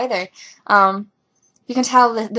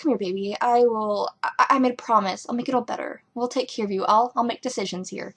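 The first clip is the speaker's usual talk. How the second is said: softer, soothing reassurance; reassuring; 5 dB quieter than usual. Retold or imitated. Merlin soothing a desperate Arthur, soft and reassuring. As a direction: comfort him gently. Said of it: "And Merlin's like".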